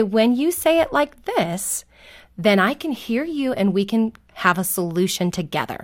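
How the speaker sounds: kindly parent modeling politeness; measured, respectful coaching of a child; nice, respectful tone. Shown as a demonstration. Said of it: "in a very nice, respectful tone of voice".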